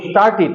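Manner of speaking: স্টার্টেড ending in "-tit", with short i; corrected pronunciation. Shown as a demonstration. Teacher models the past tense of start, corrected pronunciation. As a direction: say the last vowel of স্টার্টেড as i, not e. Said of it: "একইভাবে start এর past tense কি হবে?".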